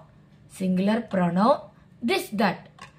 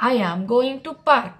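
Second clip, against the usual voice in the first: very slow, word by word; slow model sentence; 3 dB louder, much slower than usual. Shown as a demonstration. Teacher reading an example slowly to students. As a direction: lay each word down for the class.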